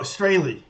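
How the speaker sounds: "Straley" with a long AY, STRAY-lee; surname pronunciation. Shown as a demonstration. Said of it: "actual pronunciation different in German".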